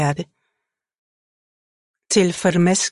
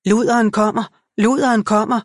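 shouting; 4 semitones higher than usual. A narrator's reading. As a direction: yell it at the crowd. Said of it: "råbte en langskægget mand".

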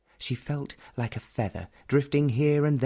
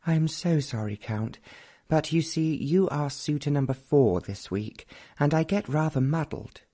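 lightly voiced young lady, pitched higher; a bright, higher young girl answering her suitor; young Henrietta; 5 semitones higher than usual.

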